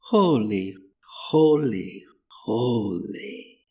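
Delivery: a light foreign lilt on each Holy, rising then falling away; vague foreign accent. A narrator's reading. Young man to Trant about the pulpit figure, vague foreign accent. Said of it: "said the young man in his foreign accent".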